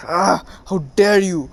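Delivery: pained "ah", then indignant retort; mock agonized outrage. Kankuro holding his wrist in agony, mock agonized outrage. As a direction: act hurt and affronted without shouting. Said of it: "screaming and holding his wrist in agony".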